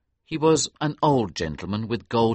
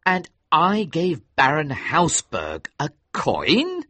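dismayed cry; 6 semitones higher, slower than usual. A narrator's reading. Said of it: "cried Hughie".

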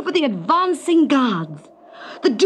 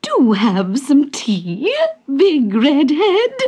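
slow, genteel offer with rising lilts; courteous aunt's slow invitation; polite; slower than usual. Acted. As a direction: offer it sweetly and unhurriedly, like a hostess. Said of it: "she said politely".

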